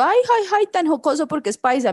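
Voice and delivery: everyone cooing, high on the first ay; a light teasing coo about the accent; mock admiring voice. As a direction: imitate people charmed by the paisa accent. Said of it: "Todo el mundo".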